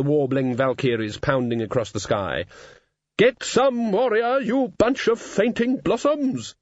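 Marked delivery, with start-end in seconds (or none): 3.2-6.5 hearty high shout; bellowing gym mistress. Acted. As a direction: bark it like a gym teacher. Imagined Valkyrie gym mistress.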